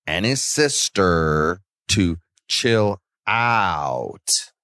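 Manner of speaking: slow, lightly put-on mother voice; Mama Karen impression. Podcaster mimicking a reality-show mom for her cohost, slow and lightly put-on. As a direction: drag it out like a reality-show mom, only half in character. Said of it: "Mama Karen impersonation".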